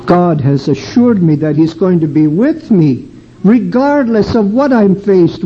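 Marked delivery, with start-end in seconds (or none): none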